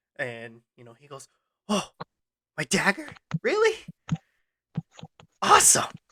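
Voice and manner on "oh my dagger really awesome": excited creature voice, much higher. Narrator voicing Blep for the players, excited Blep voice. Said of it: "you see Blep all excited".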